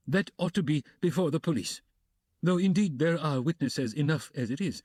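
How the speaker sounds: fussy, hesitant man; hedging gentleman. Acted. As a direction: wriggle out of it nervously. Luzhin hedging, flustered.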